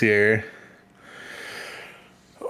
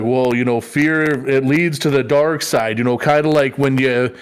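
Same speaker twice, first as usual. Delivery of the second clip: put-on rambling old man. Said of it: "rambling stories that don't have a point".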